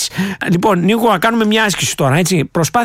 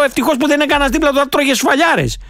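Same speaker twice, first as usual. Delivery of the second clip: retold thought; 5 semitones higher than usual. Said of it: "Σε ακούω και λέω".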